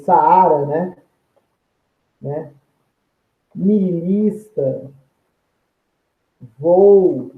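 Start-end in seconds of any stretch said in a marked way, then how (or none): 3.5-7.3 slow example read. Shown as a demonstration. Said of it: "Temos lá, nos exemplos".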